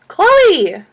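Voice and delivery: high, loud call of a name; alarmed call. A narrator's reading. Teacher calls to screaming Chloe, alarmed. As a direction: call out sharply to a screaming pupil.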